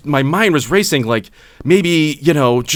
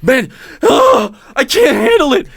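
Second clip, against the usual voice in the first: mock drunk wail; 7 semitones higher than usual. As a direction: wail it like a drunk at the end of his rope. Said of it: "He was like".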